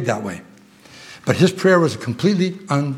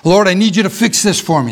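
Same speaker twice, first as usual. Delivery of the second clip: pleading self-centred prayer, a bit louder; mock selfish prayer; 5 semitones higher, 4 dB louder than usual. Preacher mocks a selfish prayer, pleading. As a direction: ham up a needy plea to God. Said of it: "That's not what he prayed".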